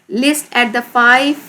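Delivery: very slow, word by word instruction; drawn-out teacher dictation. Shown as a demonstration. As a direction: dictate it slowly to the class. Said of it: "राइट करने हैं".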